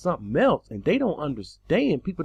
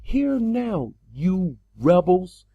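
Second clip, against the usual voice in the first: raised, slowed rebuke of rebels; mildly loud scolding with power; mock forceful rebuke; 4 dB louder, much slower than usual. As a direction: Moses rebuking the twelve tribes, mildly forceful. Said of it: "with vigor, with might, with power".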